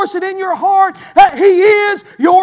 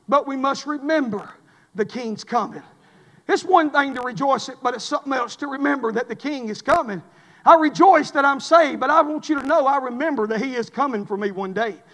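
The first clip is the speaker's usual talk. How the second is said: suddenly much softer and lower; hushed solemn reminder; 5 semitones lower, 8 dB quieter than usual. Real, not acted. Preacher reminding the church the King is coming, hushed and solemn. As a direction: bring it right down, a quiet, low reminder. Sermon drops from rejoicing to remembering.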